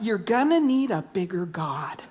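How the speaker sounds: breathless whisper after a gasp; gasp, then a hushed whisper. Acted. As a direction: lean in and whisper it like a secret.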